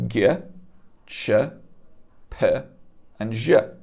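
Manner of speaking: G, Ch, P, J as short isolated syllables; Farsi letter sounds. Shown as a demonstration. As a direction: sound out G, Ch, P, J one by one, pausing between. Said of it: "we have four extra letters in our alphabet".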